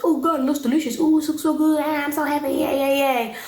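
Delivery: high, bubbly mock delight, yay yay yay; gushing excitement. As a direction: play the overeager boyfriend gushing over the food. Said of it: "Tim is just like".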